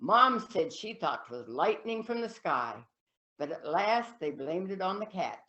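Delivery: folksy, rhythmic verse telling with lively swells; comic poem recitation. Acted. Reciting mother's old poem from the recitation nights, lively folksy verse telling.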